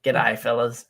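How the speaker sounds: broad Australian greeting; broad Aussie accent. Shown as a demonstration. Showing a mate the real Aussie accent, broad. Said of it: "the real Aussie accent".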